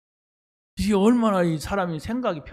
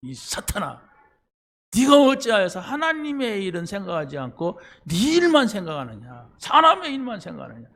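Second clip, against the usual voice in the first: scolding rebuke; 3 semitones higher than usual. Retold or imitated. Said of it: "욕에 욕을 먹었어요".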